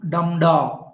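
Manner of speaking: "dum da" with the beat first on "dum"; strong "dum" falling away to "da"; stress on dum. Shown as a demonstration. Teacher demonstrating trochee to the class, stress on "dum". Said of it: "Trachea is reverse to the iamb".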